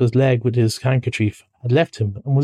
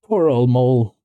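mildly sympathetic, at an easy pitch; understated kindness; kindly. Acted. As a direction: console a hurt friend gently. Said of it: "said the rat kindly".

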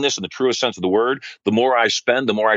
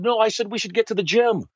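retold pleading; 10 semitones higher than usual. Husband pleading with crying wife.

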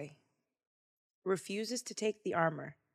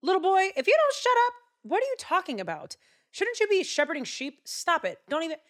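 high, loud, sneering mockery; mocking big brother; 10 semitones higher, 6 dB louder than usual. Brothers mocking David for his big talk, high sneering voice. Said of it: "His brothers look at David like".

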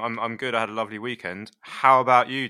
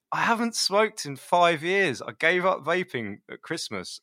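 imitating himself; 8 semitones higher, 3 dB louder than usual. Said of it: "I was like".

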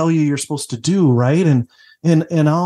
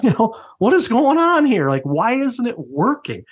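exasperated laughing disbelief; 8 semitones higher than usual. Retold or imitated. Exasperated dad laughs at futility.

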